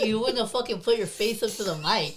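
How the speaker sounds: loud laughing protest; mock outrage, laughing; playful shouting. Real, not acted. Mock-angry playful argument.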